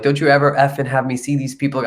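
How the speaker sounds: retold angry outburst at mom; mildly pissed off. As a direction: imitate yourself snapping, with mild heat. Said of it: "I was pissed".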